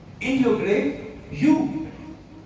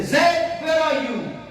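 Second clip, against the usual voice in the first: raised, higher call for someone; 6 semitones higher, slower than usual. Acted. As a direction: call out as if searching for him. Calling out for a living man.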